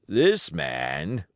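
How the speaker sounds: put-on wounded old pirate, rough and grumbling; pirate sailor. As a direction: play the injured seaman, griping. Pirate Hands speaks.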